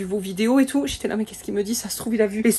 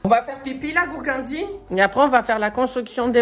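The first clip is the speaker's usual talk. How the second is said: high, sing-song voice to the dog; high cooing dog voice; pet talk; 6 semitones higher, 3 dB louder than usual. Real, not acted. Talking to her dog.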